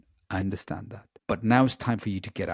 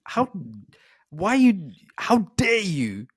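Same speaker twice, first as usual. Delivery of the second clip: indignant retort; 6 semitones higher, 3 dB louder, slower than usual. Retold or imitated. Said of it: "annoyed with her".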